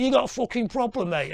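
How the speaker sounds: loud, high threatening snarl; menacing challenge. Retold or imitated. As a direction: square up to them and threaten. A singer confronting the jeerers.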